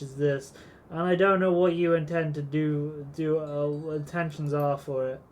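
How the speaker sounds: a hint of a gruff old sea dog; mildly hammed-up pirate shopkeeper. Voices old shopkeeper Scotty.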